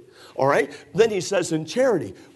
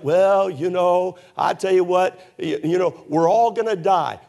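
gloomy churchgoer; 2 semitones higher, 3 dB louder than usual. Retold or imitated. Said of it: "don't come to church like".

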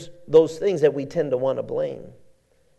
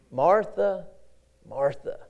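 gentle call; 4 dB quieter, slower than usual. Acted. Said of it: "your name's called twice".

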